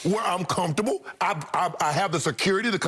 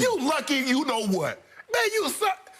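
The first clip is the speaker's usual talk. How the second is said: higher, mocking jab at an opponent; hammed-up gamer taunt over a headset; lightly voiced trash talk; 6 semitones higher than usual. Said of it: "he played a video game".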